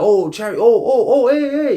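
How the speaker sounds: high, loud excited shouts at the sky; excited calling out. Retold or imitated. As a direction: yell up in excitement at flying chariots. Calling out at chariots overhead.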